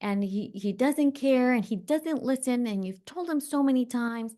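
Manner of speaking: put-on a wronged teen pouring out grievances; upset teen self. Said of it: "And she said".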